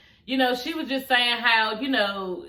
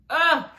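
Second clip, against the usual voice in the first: high, pained "ugh"; short groan of sympathy; emotional groan; 6 semitones higher, 4 dB louder than usual. Real, not acted. Moved by the sad rose story.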